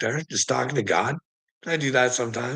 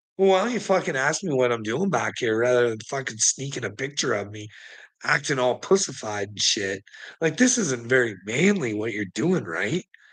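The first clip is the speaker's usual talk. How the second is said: usual speaking voice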